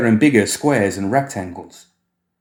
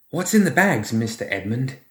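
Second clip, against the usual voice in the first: put-on child's voice; 4 semitones higher than usual. Creepy boy asks.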